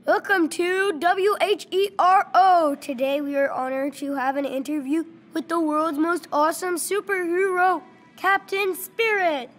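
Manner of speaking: mock TV host. Kid playing TV host.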